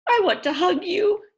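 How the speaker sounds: put-on high, loud, delighted little boy; happy child. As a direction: burst out with joy. Henry happy with parents.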